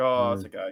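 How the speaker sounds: fake low-energy bored voice. Imitating a quarterback who didn't want to be there: imitating Jay Cutler, no energy. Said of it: "He's like".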